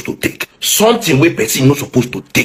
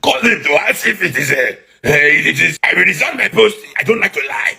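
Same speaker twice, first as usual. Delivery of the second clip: Wike impression; 5 semitones higher than usual. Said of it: "Let me do my best Wike impression".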